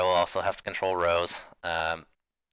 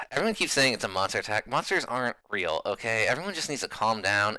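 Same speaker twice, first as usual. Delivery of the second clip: exasperated skeptic. Acted. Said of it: "she's like, sighs".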